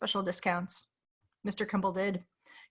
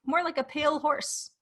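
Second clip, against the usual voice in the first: whispering; 5 semitones higher than usual. A narrator's reading. Ominous realization in narration.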